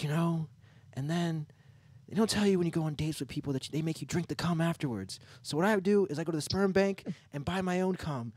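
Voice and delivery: put-on high voice, socially awkward; awkward comedian impression. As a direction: imitate an awkward woman doing her stand-up bit. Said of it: "she talks like a very awkward person".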